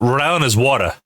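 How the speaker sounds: "water" said as "wata", ending in ah; Rhode Island pronunciation. Shown as a demonstration. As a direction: drop the R at the end of "water". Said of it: "It's W A T A H".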